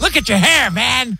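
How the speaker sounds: hammed-up scornful dad; dad impression. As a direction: sneer at the kid like his father. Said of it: "Do the impression".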